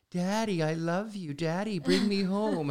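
high, pleading little puppet voice. Retold or imitated. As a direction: plead like a small puppet child. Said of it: "he's gonna say".

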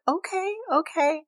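high, soft nervous okay-okay; calm him down, unsettled; uneasy placating. Retold or imitated. Wife to her tearful husband, soft and uneasy. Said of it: "She's like".

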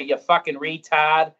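put-on slow, drawn-out Boston accent. New Englander cursing casually, in a slow Boston accent. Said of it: "the only place in America where you can say".

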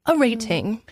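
put-on British accent. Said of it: "talking like this the entire time".

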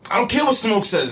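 mocking imitation. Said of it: "This is how he talks to me".

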